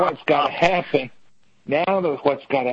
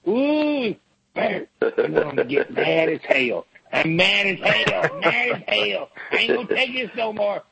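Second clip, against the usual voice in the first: higher, hammed-up mad as hell; mock outrage; 4 semitones higher than usual. Mocking angry Democrats, hammed-up fury. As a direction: act fake furious. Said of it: "they're gonna get mad".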